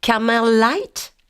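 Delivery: Americanized accent. Shown as a demonstration. French tourist Americanizing her order, slow exaggerated accent. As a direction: stretch Camel Light? out American style. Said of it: "Je vais l'américaniser un peu plus".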